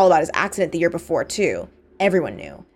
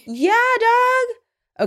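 high playful. Real, not acted.

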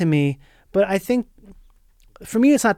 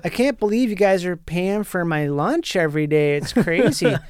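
Wisconsin welder voice. Acted. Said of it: "he's like".

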